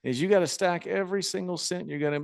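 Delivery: lightly voiced veteran giving advice; Honky Tonk Man. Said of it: "he goes".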